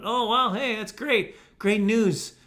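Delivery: put-on cheery praise; sarcastic congratulation. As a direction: play delighted at news you find absurd. Sarcastic reply to bragging umpire.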